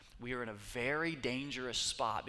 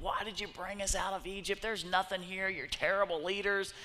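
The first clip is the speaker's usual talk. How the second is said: higher, whiny griping; complaining crowd; 6 semitones higher than usual. Acted. The Israelites complaining to Moses in the desert, whiny. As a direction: gripe at the leaders like fed-up travelers. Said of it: "the people are complaining".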